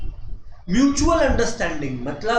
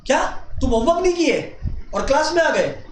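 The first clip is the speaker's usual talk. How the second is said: angry teacher; 3 semitones higher than usual. Shown as a demonstration. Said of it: "teacher गुस्सा है".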